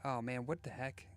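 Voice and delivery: put-on Boston accent drifting into Australian; Boston accent slipping into Australian; bad Boston accent. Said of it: "That was not Boston. That was like Boston straight into backwater Australia".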